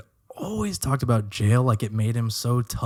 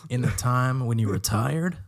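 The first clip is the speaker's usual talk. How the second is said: mock melodrama. Speaking to a dead light, hammed-up heartbroken plea. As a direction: plead like a jilted lover, overdone.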